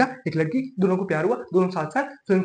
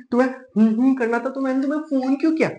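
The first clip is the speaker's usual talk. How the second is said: higher-pitched nagging girlfriend, lightly mimicked; imitated girlfriend; 4 semitones higher than usual. Boyfriend mimics girlfriend's complaint on the phone, higher nagging voice.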